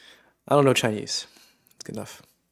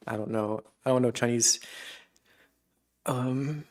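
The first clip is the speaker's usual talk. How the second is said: normal talking voice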